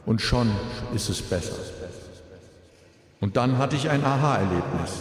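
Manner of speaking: grieving father's eulogy, composed; at a graveside. Real, not acted. Eulogy for son at funeral.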